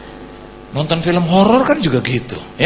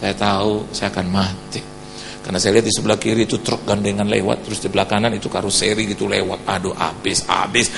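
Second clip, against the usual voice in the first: much lower, softer storytelling; hushed recollection; 9 semitones lower, 6 dB quieter than usual. Retold or imitated. Preacher recalls expecting to die, hushed and low. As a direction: drop down after the scream.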